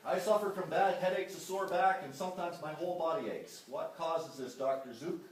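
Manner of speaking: patient asking Doctor Zook about aches; cartoon patient. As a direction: whine the symptoms at the doctor. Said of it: "cartoon patient reading".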